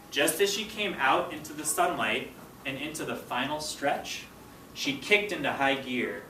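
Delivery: slow, expressive storybook narration; story read-aloud. A narrator's reading. Teacher reading the race scene to her students, expressive read-aloud. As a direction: read it to the class, building the race. Reads chapter aloud to class.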